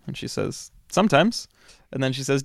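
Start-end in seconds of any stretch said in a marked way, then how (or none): 0.9-1.5 lightly voiced Italian woman, higher, rising; a hint of a coy Italian woman on the intercom; Italian woman's voice. Intercom woman teasing the visitor, lightly voiced higher. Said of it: "this sort of female Italian voice says".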